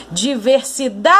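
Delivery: long-distance call, stretching the stressed DA; calling out a word. Shown as a demonstration. Teacher calls a faraway word to reveal its stressed syllable, calling out. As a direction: call DIVERSIDADE as if to someone far away, DA held long. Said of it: "Vou gritar de novo".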